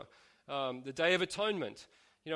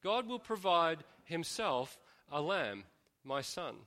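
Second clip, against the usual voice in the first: slower, letting each word sink in; slow repeated line; slower than usual. Shown as a demonstration. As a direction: repeat it slowly, for weight. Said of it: "Now just say that a couple of times".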